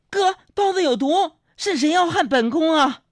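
very high, drawn-out mock shriek; melodramatic palace cry. Little cousin crying poison at the buns, high imitated palace-drama cry. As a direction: wail it slowly like a palace-drama consort. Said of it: "她就在那喊".

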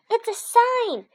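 very high, loud hamster squeaks; squeaking. A narrator's reading. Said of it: "I squeaked".

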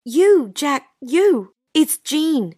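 calling into phone. Acted. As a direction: push it down the phone line. Straining to be heard on bad line.

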